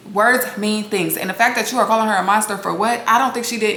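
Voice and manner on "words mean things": each word slow and weighted; slow emphatic. Real, not acted. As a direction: lay it down word by word. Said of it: "words means things".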